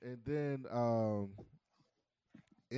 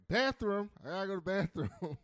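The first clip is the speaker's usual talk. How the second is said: higher, louder mock urgency; urgent announcement; 7 semitones higher, 6 dB louder than usual. Passenger demanding a bathroom stop, urgent. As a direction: blurt it out like it cannot wait.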